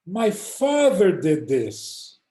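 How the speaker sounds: slow and tearful, moved; choked up. Retold or imitated. Old Russian man under tefillin, slow and tearful. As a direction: say it as tears come. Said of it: "He starts to cry".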